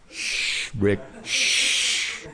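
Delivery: hushing someone in a whisper; a quick whispered shh; whispered shush. Real, not acted. Hushing someone during the sermon.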